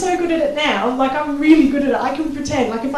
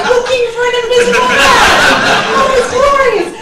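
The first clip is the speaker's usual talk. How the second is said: mock passerby call; 10 semitones higher, 6 dB louder than usual. Acting out passerby reaction.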